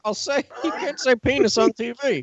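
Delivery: blustering southern cartoon rooster; Foghorn Leghorn. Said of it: "Is he Foghorn Leghorn?".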